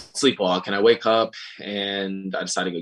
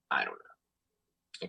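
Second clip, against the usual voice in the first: low, very slow, soft and drawn out; dragged clueless reply; 12 semitones lower, 10 dB quieter, much slower than usual. Retold or imitated. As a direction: stretch it out, totally lost. Repeated clueless answer, dragged out.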